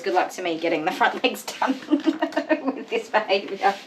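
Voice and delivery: laughing wryly. Real, not acted. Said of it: "All I can say is".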